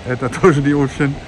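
tired, talking through a numb mouth; exhausted after tooth extraction; numb mouth after surgery. Real, not acted. (устало, с онемевшим ртом)

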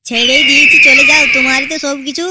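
called out loudly after them; loud jeer. Acted. Henchman to departing couple, loud taunting send-off.

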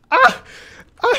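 short, high yelp of pain; pained cry. Real, not acted. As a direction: cry out "ah" as something stings the eye. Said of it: "okay, the pain".

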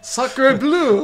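put-on French accent. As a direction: belt it out like a cartoon Frenchman. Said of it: "So she's French".

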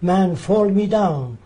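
lightly mimicked Arab leader's halting English; imitated Arab-accented pidgin, deliberate phrasing; imitated broken English. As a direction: act out a foreigner reasoning in broken English. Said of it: "He says".

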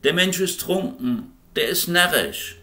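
high, mocking jeer at a man; mock a bold man in a high taunting voice; jeering bystanders. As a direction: call after him like a sneering crowd. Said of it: "einem Kerl ... nachrufen zu hören".

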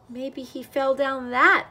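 high, loud worried wail. A narrator's reading. Cat at the steep cliff edge, wailed. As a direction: wail it out in alarm. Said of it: "wailed the cat".

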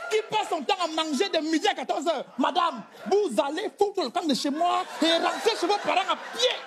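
hammed-up rant at his wife; mock furious husband. Husband throwing his wife out, hammed-up fury. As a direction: tear into her, half-laughing. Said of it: "Si c'est un homme".

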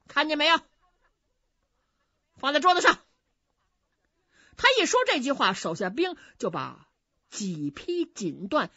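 loud, bossy bully of a general; swaggering general. Acted. General bullies the innkeeper, loud and bossy. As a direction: throw your weight around, lightly voiced.

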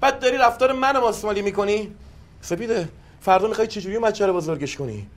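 furious husband lashing out at his wife; angry tirade. Acted. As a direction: tear into her, pitch climbing. Heated quarrel, husband accusing wife.

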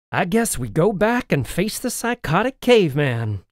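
glum. Acted. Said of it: "the girl said glumly".

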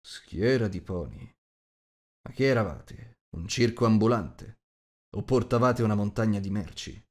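a big man mocking the word; scoffing big host.

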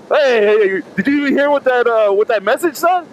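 imitating excited gym guy. Imitating guy nudging him.

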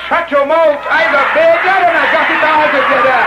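imitated boastful Barbadian brother; Bajan accent. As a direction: brag in a put-on Bajan accent. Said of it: "the brother from Barbados says".

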